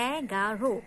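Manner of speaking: এগারো said by syllable, "ae-ga-ro"; open ae. Shown as a demonstration. Teacher demonstrating the rule, open ae in এগারো. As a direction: open and separate the first vowel of এগারো. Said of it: "এর মতো উচ্চারণ করছি".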